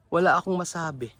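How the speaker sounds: hushed, breathless whisper; whispered awe. Real, not acted. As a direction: whisper it in speechless wonder.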